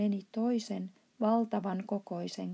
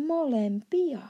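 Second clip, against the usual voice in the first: one loud, higher yelled word; shouting; 5 semitones higher, 6 dB louder than usual. Acted. The giant shouting his answer at Sohvi, a loud high yell. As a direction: blurt it out as a big shout. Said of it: "huusi I K J".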